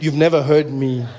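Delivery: low, slow, halting repetition; stunned disbelief. Retold or imitated. Comedian repeating deaf fan's complaint, slow disbelief. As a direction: leave long gaps between phrases, stumbling.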